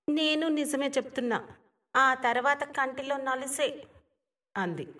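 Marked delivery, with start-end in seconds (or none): 0.1-3.7 put-on higher and softer young woman's voice; wistful girl, hushed; village girl, softer. Rangi answering him softly, a little wistful.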